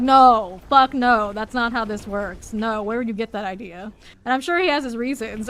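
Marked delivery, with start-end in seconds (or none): 0.0-3.9 loud, indignant no; loud outraged refusal. Retold or imitated. Refusing the partner's guess, loud and indignant. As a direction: shout the refusal in disbelief. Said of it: "And then I'm like".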